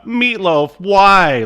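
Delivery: hammed-up grieving fan crying to the sky; mock grief wail. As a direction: wail it like a heartbroken fan tweet. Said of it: "one of those tweets".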